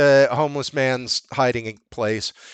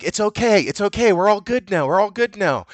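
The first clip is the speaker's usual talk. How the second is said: retold reassurance; 7 semitones higher than usual. Retold man reassuring the woman.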